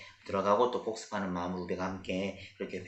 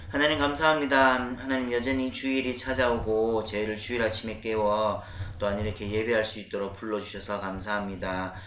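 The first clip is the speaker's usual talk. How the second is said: prayer; 2 semitones lower than usual. Real, not acted. Pastor praying aloud for the children, hushed prayer.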